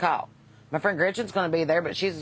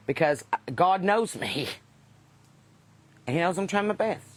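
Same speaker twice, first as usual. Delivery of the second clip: cigarette in mouth. Real, not acted. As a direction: speak around a lit cigarette. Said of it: "while I have a cigarette in my mouth".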